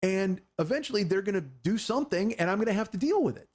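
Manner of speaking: high-pitched, emphatic retold argument; exasperated insistence. Warning girlfriend about ten enemies, exasperated insistence. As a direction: lay out the danger, pitch riding high.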